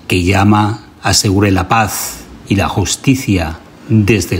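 solemn chant-like recitation in measured phrases; ritual invocation. Acted. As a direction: invoke the gods firmly, pausing for listeners to repeat. Leads a repeat-after-me ritual invocation.

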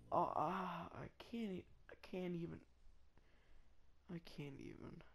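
very soft, defeated murmur; speechless dismay. Real, not acted. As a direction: trail away, too gutted to speak up. Gutted after missing kill cam.

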